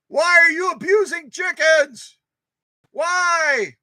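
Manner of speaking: high, loud, outraged accusation; accusing protester. Pretend. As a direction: yell at them like angry activists. Imagined PETA activists accusing them.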